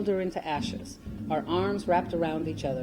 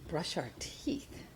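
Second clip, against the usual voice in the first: slow, breathless whisper of disbelief; shocked whisper; 12 dB quieter, much slower than usual. Retold or imitated. A girl whispering her shock at brushing with fingers. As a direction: hush it out slowly, stunned.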